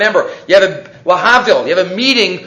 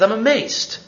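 amazed king. Acted. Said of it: "The king says".

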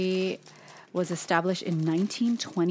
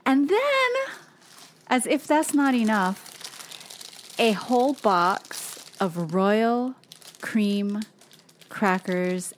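excited; 3 semitones higher, much slower than usual. Real, not acted. Building excitement over gifts.

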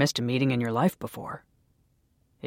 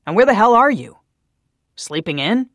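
angry tirade; 3 semitones higher, 8 dB louder than usual. A narrator's reading. Daniel berating Naomi, building to a furious shout. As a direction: tear into her, rising in fury.

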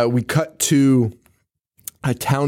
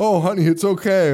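higher, soothing parent voice; compassionate parent; 7 semitones higher than usual. Acted. Parent reassuring a scared daughter, lightly acted comfort. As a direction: comfort a child in a sweet raised voice. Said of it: "have a little bit of compassion".

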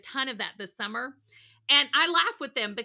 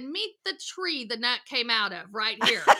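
laughing aside; 5 dB louder than usual. Retold or imitated. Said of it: "I looked at the O T and I said".

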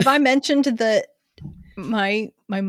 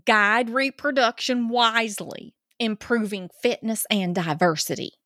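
put-on Georgia accent. Co-host reading Ten Commandments to listeners, Georgia accent. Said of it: "do this in Georgia accent".

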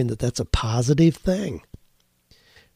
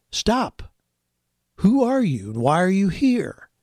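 voice ringing out; 7 semitones higher than usual. A narrator's reading. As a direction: call out like a guard stopping a stranger. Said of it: "all of a sudden a voice rang out".

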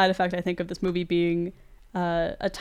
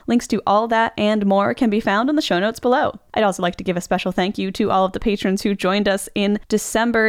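upbeat, louder host sign-off read; podcast outro; 6 dB louder than usual. Acted. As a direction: read the closing credits like a radio host.

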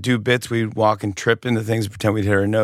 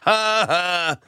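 higher put-on ha-ha; Jack Nicholson laugh; 7 semitones higher than usual. Telling the podcast host how Jack Nicholson laughs. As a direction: mimic Jack Nicholson's laugh once more. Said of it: "That's how he laughs".

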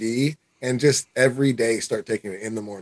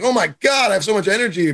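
mock excitement; 7 semitones higher, faster than usual. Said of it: "you're not gonna be like".

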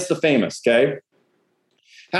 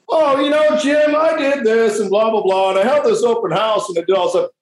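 mock chatty agent; 2 semitones higher than usual. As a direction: ham up a chatty agent bragging about her weekend. Mocking agent's weekend small talk.

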